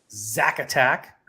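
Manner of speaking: slow, drawn-out hype name; announcer voice. Acted. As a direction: call it like a ring announcer. Announcing friend's nickname.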